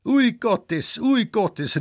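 high, loud delighted exclamation; old man thrilled by the gift of snuff; cry of joy. Acted. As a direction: burst out with overjoyed surprise. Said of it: "in einen Freudenruf ausbrach".

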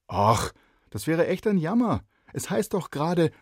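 put-on high, loud girl's voice; a bright neighbour girl asking; lively girl. Neighbour girl asks shy boy why not, lively. Pippa's voice.

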